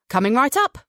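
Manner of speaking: bright, eager service reply; cheery. Acted. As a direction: toss it off cheerily to the guests. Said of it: "Captain Roy said cheerily".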